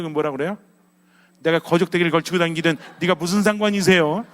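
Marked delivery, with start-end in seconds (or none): 1.4-4.2 defiant retort. Acted. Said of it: "이렇게 하지 않아요".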